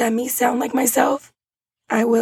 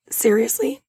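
ordinary talk

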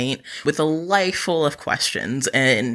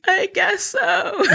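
laughing reluctance; much slower than usual. Retold or imitated. Reluctant answer during altar call.

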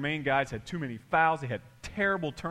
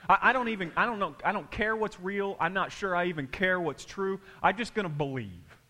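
careless shrug; 4 semitones higher than usual. Retold or imitated. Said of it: "we just go".

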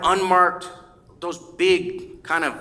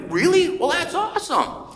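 excited surprise; 12 semitones higher than usual. Retold or imitated. Hearing about the fundraising run.

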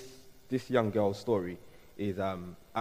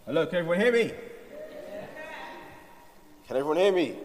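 calling out; 8 semitones higher, 3 dB louder, much faster than usual. Real, not acted. Testing mic, calling to audience.

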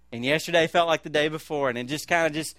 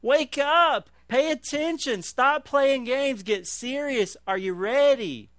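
higher, louder, slow, emphatic commands; God's stern rebuke; 7 semitones higher, 3 dB louder, slower than usual. Acted. God demanding sleepy Christians get serious, forceful rebuke. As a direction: hammer each command like a wake-up order. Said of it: "he said".

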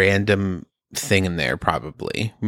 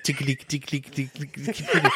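fast, quiet mock computer noise; computer sound; 3 semitones higher, 6 dB quieter, faster than usual. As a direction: chatter like a computer. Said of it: "Computer sound".

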